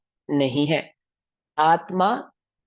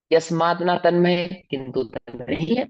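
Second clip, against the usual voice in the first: corrupted glitchy audio. Real, not acted. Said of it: "आपकी आवाज cut रही है".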